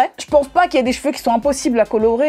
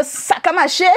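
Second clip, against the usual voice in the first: playful Creole accent, raised pitch; accent créole; 5 semitones higher than usual. Shown as a demonstration. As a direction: slip briefly into a Guadeloupean Creole accent. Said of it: "je m'amuse à le faire". (accent créole antillais, pour rigoler)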